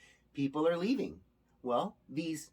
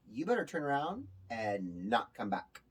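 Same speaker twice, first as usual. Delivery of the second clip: menacing grower; 5 semitones lower, 4 dB quieter than usual. Retold or imitated. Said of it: "And they go".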